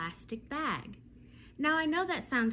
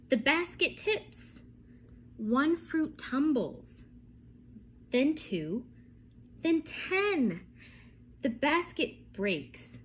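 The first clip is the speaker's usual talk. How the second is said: lively storybook reading with vivid pauses; reading to children. Acted. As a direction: read it to a class of little ones. Reads picture book aloud to kids.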